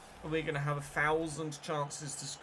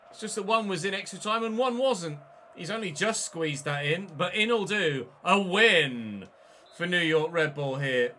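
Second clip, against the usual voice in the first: excited; 2 semitones higher, 5 dB louder than usual. Real, not acted. Winning goal celebration.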